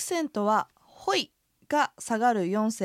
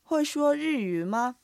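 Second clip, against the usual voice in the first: higher, very slow model reading; pronunciation practice; 5 semitones higher, slower than usual. Shown as a demonstration. Teacher models the sentence for repetition, slow and careful. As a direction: stretch every tone clearly for learners. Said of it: "発音と合わせて練習してみましょ".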